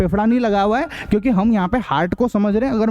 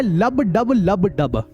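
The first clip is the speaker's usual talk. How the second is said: लब डब लब डब said slowly, each beat spaced apart; heartbeat sound; much slower than usual. Shown as a demonstration. Teacher showing students the heartbeat sound, slow and spaced. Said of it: "science की language में वो धक धक धक धक नहीं होता है".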